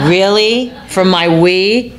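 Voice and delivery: laughing, the last words slow; laughing retort. Retold or imitated. The American girl answering Romeo through a laugh. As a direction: tease back with a laugh in the voice.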